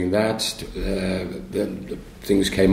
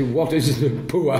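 higher-pitched mimicry of a Birmingham accent; echoed Birmingham accent; 5 semitones higher than usual. Lead actor forced to repeat the Birmingham accent on stage. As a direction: echo the Birmingham vowel through laughter. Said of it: "had to repeat whatever I said".

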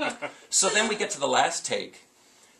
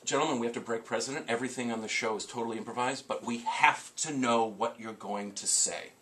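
low, soft, measured appeal; lightly voiced director laying down a careful warning; serious adult talk; 4 semitones lower, 6 dB quieter than usual. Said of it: "a serious adult conversation".

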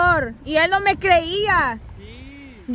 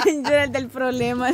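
laughing; 2 semitones lower, 4 dB quieter, faster than usual. Real, not acted. Repeating friend's line, laughing.

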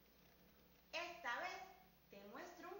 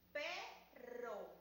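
faster. Shown as a demonstration. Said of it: "Más rápido".

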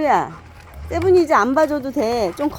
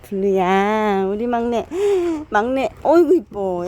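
tender cooing; slower than usual. Real, not acted. Cooing over the youngest dog.

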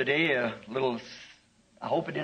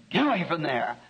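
a sudden pitch jump on the first word, mild shout; mock holler to shoo something off; retold holler. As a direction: holler it briefly at the bear cub. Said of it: "And I hollered".

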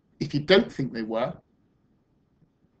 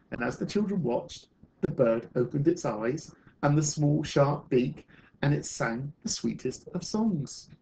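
measured, expressive picture-book reading; storyteller reading to children; story narration; 3 dB louder than usual. Acted. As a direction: read a story aloud to a class, with lift on the key words.

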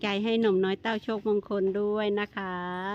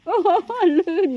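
amazed slow exclaim; 9 semitones higher, 8 dB louder, much slower than usual. Real, not acted. Elephant slipping on ground.

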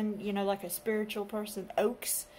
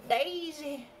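excited exclaim; 5 semitones higher, 10 dB louder than usual. Real, not acted. Admiring found gun.

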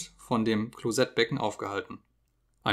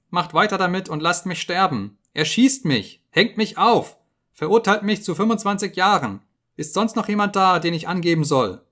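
high, loud panicked begging; desperate pleading scream; 7 semitones higher, 6 dB louder than usual. Acted. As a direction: plead for your life, voice cracking upward. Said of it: "schrie er".

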